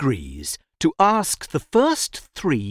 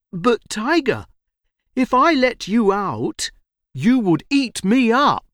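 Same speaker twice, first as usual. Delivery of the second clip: put-on higher-pitched, worried young boy; frightened boy; 10 semitones higher than usual. A narrator's reading. Boy answers the caged tiger, frightened. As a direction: protest nervously in a high voice. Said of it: "is frightened".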